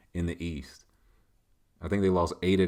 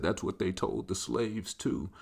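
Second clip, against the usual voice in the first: lightly voiced solemn dog; slow, softened retort from a pet; talking dog; 5 dB quieter, slower than usual. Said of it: "my pet talks like that".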